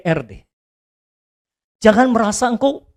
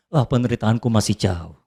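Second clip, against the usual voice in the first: relieved aside; 11 semitones lower, 7 dB quieter than usual. Retold or imitated. Sigh of relief comparing suffering.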